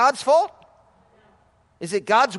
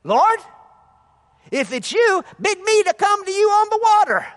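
eager Peter; 9 semitones higher, 4 dB louder than usual. Retold or imitated. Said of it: "to saying".

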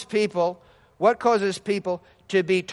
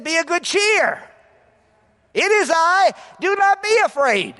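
Jesus reassuring; 7 semitones higher, 4 dB louder than usual. Acted. Preacher voicing Jesus calming disciples.

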